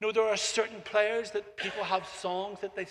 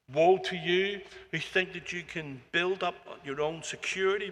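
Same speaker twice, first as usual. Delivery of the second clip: a touch of solemn prophetic pronouncement; prophetic woes; 2 semitones lower than usual. Acted. Nations singing woes against Babylon, mildly solemn and grave. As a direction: recite the woes like a grave oracle. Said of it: "They sound a bit like this".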